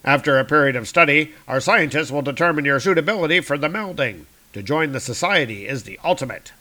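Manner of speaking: fast officious guard. Acted. Guards explaining the melding to Doom, officious. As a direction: announce the prisoner's fate. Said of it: "the guards are saying".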